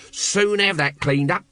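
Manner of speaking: high, unhurried cheery offer; cheerful. A narrator's reading. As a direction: offer help cheerfully, stretching it out. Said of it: "volunteered Nobby cheerfully".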